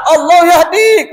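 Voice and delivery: high, slow mock-angry exclamation; imitating furious Arab. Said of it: "Kalau sudah marah sekali orang Arab". (menirukan orang Arab marah sekali)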